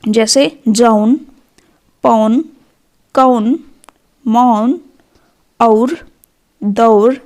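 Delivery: slow. Shown as a demonstration. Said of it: "कुछ और शब्द हैं".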